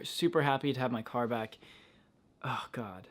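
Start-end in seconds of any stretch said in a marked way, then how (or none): 2.4-3.1 breathy whispered relief; relieved whisper. Real, not acted. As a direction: let it out under your breath. Relieved to have car back.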